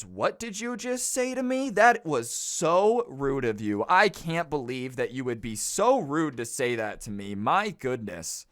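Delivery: scandalized whiny mock voice; offended Karen. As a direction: play the outraged customer to the hilt. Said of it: "looks at the old woman and goes".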